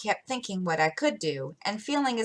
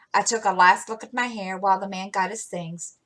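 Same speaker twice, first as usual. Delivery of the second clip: ordinary delivery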